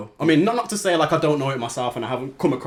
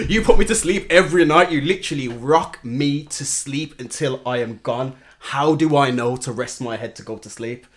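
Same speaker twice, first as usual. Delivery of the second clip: put-on child's complaint told through laughter, slowing down; dad voicing his baby daughter's protest, laughing and slowing; laughing through a quote; 5 dB louder, slower than usual. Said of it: "she was like".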